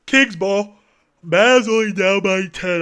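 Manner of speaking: lifted sportscaster call; play-by-play call. Acted. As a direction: punch it like a TV caller.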